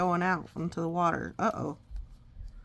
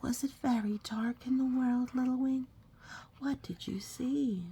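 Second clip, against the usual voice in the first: gentle whispered mother; a hint of a tender mama; mother bat; 4 semitones higher than usual. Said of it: "His mother caught him up in her wings and asked".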